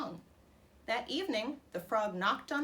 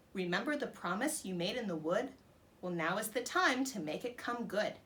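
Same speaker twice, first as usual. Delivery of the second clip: little croaking voice. Acted. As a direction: croak a coaxing rhyme at the door. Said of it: "a little voice croaked".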